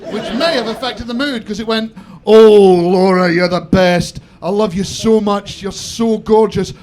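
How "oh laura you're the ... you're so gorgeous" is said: loud, hammed-up Somerset accent; West Country accent. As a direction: let the Scottish voice slide into a broad West Country accent. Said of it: "till I sound like one of a West Country band".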